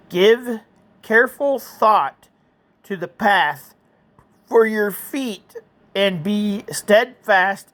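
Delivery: slow, measured verse reading; scripture reading. Acted. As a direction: read the verse deliberately. Reads Bible verse aloud.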